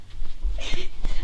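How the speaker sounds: breathy burst of laughter during the fight; laughing. Real, not acted. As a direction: laugh out while attacking.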